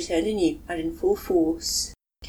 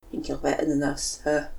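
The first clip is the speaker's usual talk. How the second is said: scornful; 4 semitones lower than usual. Acted.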